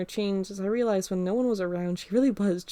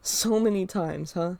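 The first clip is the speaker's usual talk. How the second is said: snarky echo; slower than usual. Acted. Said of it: "snarkiness in my voice".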